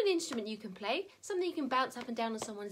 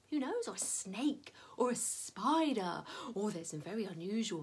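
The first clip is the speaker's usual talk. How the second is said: whisper; 6 semitones lower, 7 dB quieter than usual. Real, not acted. Whispered animal names.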